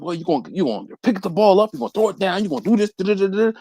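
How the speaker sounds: retold Southern coach, trailing into nonsense syllables. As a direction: rattle off instructions as a Southern coach. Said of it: "he was real Southern".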